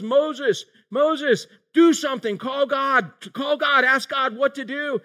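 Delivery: pleading Israelites. Retold or imitated. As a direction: play the panicked crowd begging Moses. Israelites crying out to Moses.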